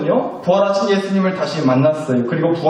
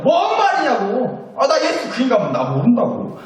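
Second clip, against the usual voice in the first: indignant denial; 6 semitones higher than usual. Acted. Peter denies knowing Jesus to accusers, mildly indignant. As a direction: play an accused man brushing it off.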